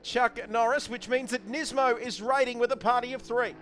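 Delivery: high, energised motorsport call; live race commentary. Real, not acted. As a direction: call the cars out onto the track.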